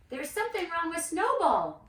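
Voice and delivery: calling out. A narrator's reading. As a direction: call out to the house in alarm. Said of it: "she called".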